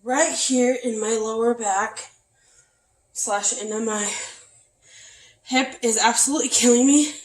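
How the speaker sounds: short of breath, hip pain. Real, not acted. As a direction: talk through the breathlessness. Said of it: "That's why I'm out of breath".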